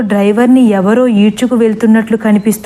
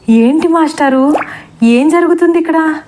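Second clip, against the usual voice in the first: higher, a hint of crying; tearful question; 6 semitones higher than usual. Lakshmi madam asks the master what is happening, tearful. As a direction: ask through mild mock tears. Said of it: "Lakshmi madam ఏడుస్తూ అడిగారు".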